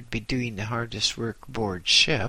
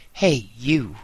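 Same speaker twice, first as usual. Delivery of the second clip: loud shout from the bridge; bawled call; 6 dB louder than usual. A narrator's reading. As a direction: bawl it out across the deck. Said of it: "a voice bawled from the bridge".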